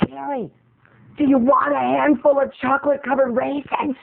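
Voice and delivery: a hint of a sweet mother offering snacks; mom voice. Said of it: "she starts".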